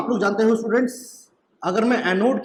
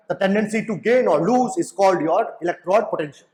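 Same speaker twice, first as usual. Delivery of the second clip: slow, deliberate English definition, word by word; much slower than usual. Shown as a demonstration. Teacher defining electrode tendency to students, slow and deliberate. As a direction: spell it out slowly so students can note it.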